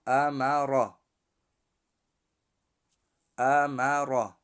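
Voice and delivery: امرا with a thick, rounded ر; heavy ر in امرا. Shown as a demonstration. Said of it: "در دوم حرف را".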